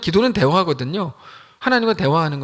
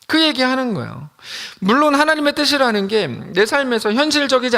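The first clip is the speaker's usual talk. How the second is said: building pastoral insistence, pitched up; rising sermon fervor; 4 semitones higher than usual. Acted. Pastor urging the congregation, rising sermon fervor. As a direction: lift the voice and preach it high.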